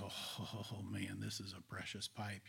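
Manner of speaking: hushed awe. Retold or imitated. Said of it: "I echoed his tone of voice".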